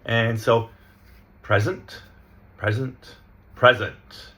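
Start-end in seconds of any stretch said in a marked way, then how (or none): 1.4-3.2 PRE-zent, "present" stressed up front; stress on first syllable. Shown as a demonstration. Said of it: "putting our stress on the first syllable". 3.5-4.3 pre-ZENT, "present" stressed at the end; stress on last syllable. Shown as a demonstration. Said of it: "we're emphasizing the last syllable".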